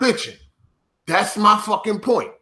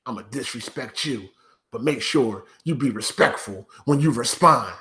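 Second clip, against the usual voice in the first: mock whiny critic; 9 semitones lower, 5 dB quieter than usual. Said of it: "mocking critics, low quiet".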